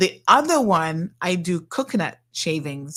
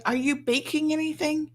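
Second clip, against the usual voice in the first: put-on eager kid; 6 semitones higher than usual. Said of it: "she's like".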